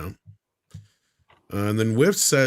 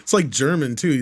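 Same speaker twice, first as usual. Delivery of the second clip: laughing; 3 semitones higher than usual. Real, not acted. Laughing at own accent.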